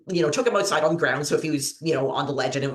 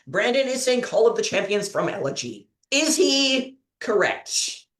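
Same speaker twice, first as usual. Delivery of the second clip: higher, showy announcer delivery; quiz host; 4 semitones higher than usual. Acted. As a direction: repeat the options for the audience, drawing out the suspense. Quiz host addresses viewers.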